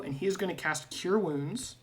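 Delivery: normal talking voice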